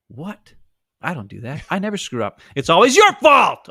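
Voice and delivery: hammed-up blame-shifting rant; mock tantrum. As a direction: build from a sulk into a loud accusing whine. Mocking a blaming teammate.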